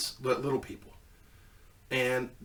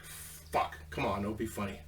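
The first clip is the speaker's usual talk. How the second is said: hushed plea; 5 semitones lower, 11 dB quieter than usual. Retold or imitated. Pleading with wife over mask.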